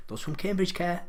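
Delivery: lifted pitch, coming out of a laugh; amused retort. Real, not acted. Quizmaster joking about who cares about Cambridge, amused retort. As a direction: answer back through a chuckle, pitch rising.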